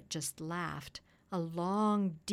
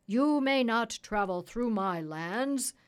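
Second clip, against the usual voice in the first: lightly voiced king, raised and firm; a hint of a commanding king; stern king; 4 semitones higher, 8 dB louder than usual. A narrator's reading. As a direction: forbid it loudly, like a ruler. King forbids the doctor passage.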